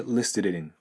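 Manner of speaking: "listed in" as liste-din; linked D. Shown as a demonstration. Teacher shows liaison, "listed in" as one word. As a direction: glue the D onto in, "listed in". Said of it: "Dとin、".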